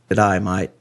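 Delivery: easy mock-Australian greeting; Australian accent. Shown as a demonstration. Host showing friends the trick, mock Australian accent. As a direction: blend the three words into Australian. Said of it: "without sounding Australian".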